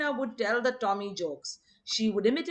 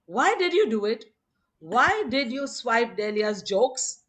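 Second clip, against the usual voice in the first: accusing; 4 dB louder than usual. Retold or imitated. Baba confronting Norina.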